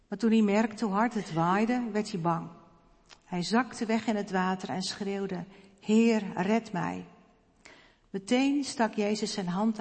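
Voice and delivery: put-on lively Bible story read aloud to the children; storytelling voice. A narrator's reading. Pastor reading the water-walking story to the children, storytelling voice. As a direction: tell it like a children's story, with some drama.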